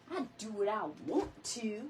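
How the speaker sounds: lightly voiced sassy friend; sassy friend's catchphrase. Host repeating her friend's catchphrase, lightly imitated sass. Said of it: "every time you say that".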